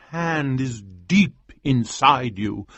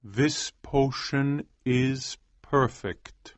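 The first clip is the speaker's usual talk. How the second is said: calm assurance; 3 semitones higher, 5 dB quieter, much slower than usual. Acted. Almer slow softer.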